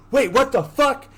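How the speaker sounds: high, loud burst of disbelief; mock shocked outburst. Girlfriend freaking out after the kiss, mock shocked outburst. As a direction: blurt it as if freaking out.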